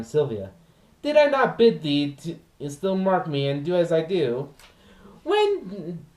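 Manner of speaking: lively comic clown servant complaining of his dog; Launce monologue. Acted. Launce scolds his unfeeling dog, hammed-up comic lament. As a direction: play the put-upon servant, mock outrage.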